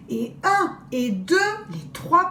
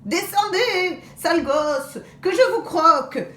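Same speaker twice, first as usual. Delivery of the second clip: wolf's threat; 7 semitones higher, 3 dB louder than usual. Acted. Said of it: "il hurle".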